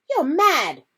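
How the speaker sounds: put-on alarmed boy; Ron.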